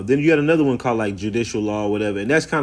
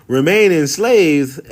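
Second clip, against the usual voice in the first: louder, slow disbelieving echo; stunned, drawn-out echo of the claim; incredulous; 4 semitones higher, 6 dB louder, slower than usual. Real, not acted. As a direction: repeat it back like you can't believe it. Reacting in disbelief to the clip.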